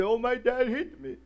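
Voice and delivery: mock a kid running to their sweetheart; whining teenager. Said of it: "They go and say".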